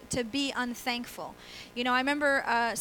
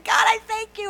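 much higher and louder, crying out to God; passionate cry; 10 semitones higher, 11 dB louder than usual. Retold or imitated. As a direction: belt out thanks with full fervor. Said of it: "with this passion".

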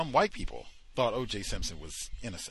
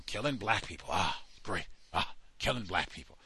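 mocking Fuhrman; 2 semitones lower than usual.

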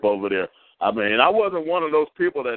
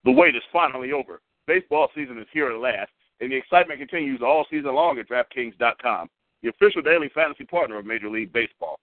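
upbeat hyped-up sponsor read; radio ad read. Acted. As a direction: sell it like a radio commercial. Host reads sponsor ad.

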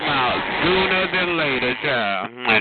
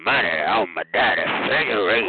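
low mock Jerome voice; 5 semitones lower than usual. Mocking the caller as a raspy man named Jerome. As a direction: growl it like a rusty old player. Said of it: "he sound like Jerome".

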